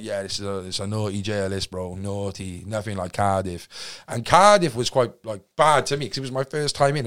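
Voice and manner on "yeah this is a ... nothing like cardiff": low, slow warning; lightly voiced hardened con; grim old-timer. Seasoned inmate warning.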